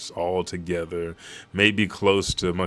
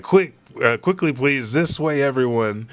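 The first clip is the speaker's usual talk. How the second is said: urgent soldier; 5 semitones higher, 4 dB louder than usual. Retold or imitated. Soldier hurries nobles to escape.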